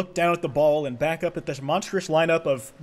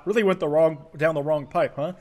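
ordinary talk

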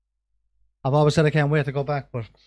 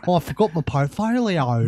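put-on Australian accent. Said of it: "tried to do it then in an Australian accent".

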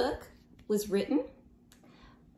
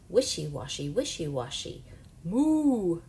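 cow crying moo. Acted. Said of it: "the cow cries".

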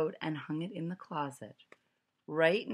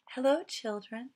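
sweet voice; 7 semitones higher than usual. A narrator's reading. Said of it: "in a sweet voice".

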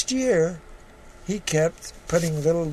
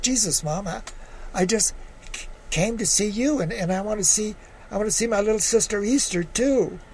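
upset protest; 5 semitones higher than usual. Acted. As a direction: insist you only came to see her. Son protesting to his mother.

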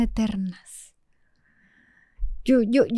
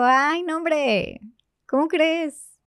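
nervous, higher and brighter; nervous laugh-talk; 5 semitones higher, slower than usual. Retold or imitated. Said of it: "me reí muy nerviosa". (nerviosa, riendo, más aguda)

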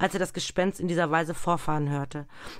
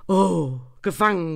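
klagender Ruf; 2 semitones higher, 6 dB louder than usual. A narrator's reading. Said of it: "rief das Geist".

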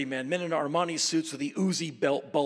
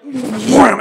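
sudden wham; 8 semitones higher, 19 dB louder than usual. Retold or imitated. Mosquitoes suddenly land.

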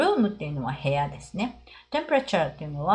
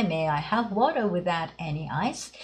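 slow model reading; 2 semitones lower, 3 dB quieter, slower than usual. Shown as a demonstration. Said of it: "ということで".

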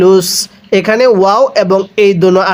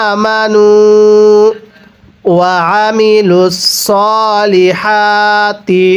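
slow melodic tilawat, drawn-out vowels; slow Quran recitation; much slower than usual. Shown as a demonstration. Teacher recites the verse for students, slow melodic chant. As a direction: chant the verse slowly and evenly. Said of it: "তাহলে কিভাবে পড়ব?".

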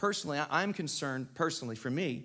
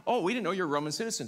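hasty backpedal; faster than usual. Acted. Acting Paul's captors backing down.

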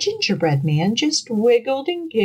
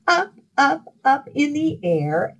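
rising pitch; 8 semitones higher than usual. A narrator's reading. Fox tossing him up.

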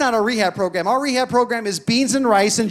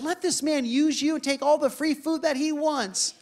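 gentle divine voice. Retold or imitated. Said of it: "the Holy Spirit spoke to me".

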